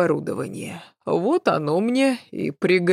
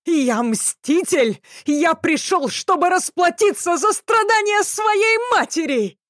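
high-pitched near-squeal; 12 semitones higher than usual. A narrator's reading. Avenger proclaims his mission, voice rising to a squeal. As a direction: push it up until it almost squeaks. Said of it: "голос его оказался неожиданно высоким".

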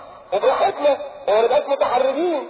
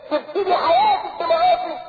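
rising rebuke; 5 semitones higher than usual. Real, not acted. Preacher rebuking.

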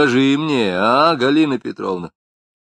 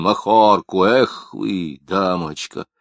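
mocking echo; 4 dB louder, much slower than usual. A narrator's reading. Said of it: "передразнил Лапшин".

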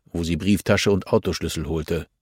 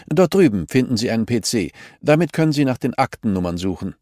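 put-on higher, curt, hurried old woman; grumpy archivist; 4 semitones higher, 4 dB louder than usual. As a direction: brush her off impatiently. (gespielte mürrische Archivarin, höher und kurz angebunden)

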